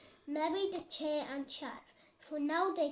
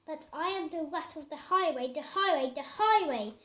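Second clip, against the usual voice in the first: rat's refrain getting louder each time; swaggering rat chanting his name; building rat boast; 5 dB louder, faster than usual. Acted. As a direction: boom out the highway chant.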